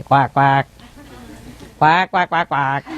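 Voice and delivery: duck quacks in short bursts; imitating a duck. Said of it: "say like a duck".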